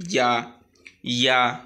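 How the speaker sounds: "ইয়া" with the final "aa" drawn out one beat; one-beat stretch. Shown as a demonstration. Teacher modelling the letter, "ইয়া" moderately lengthened. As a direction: stretch "ইয়া" slightly, evenly. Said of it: "ইয়াটা একালি পরিমাণ টেনে পড়বো".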